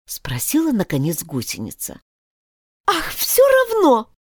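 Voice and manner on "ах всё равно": quick reply. A narrator's reading. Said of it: "быстро сказала Алиса".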